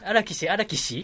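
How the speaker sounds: drawn-out nerdy calling out; otaku voice. Pretend. Replies in otaku voice.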